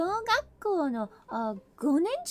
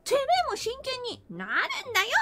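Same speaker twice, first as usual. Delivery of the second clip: earnest angry demand; 7 semitones higher, faster than usual. Acted. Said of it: "私だけ真剣でしたら".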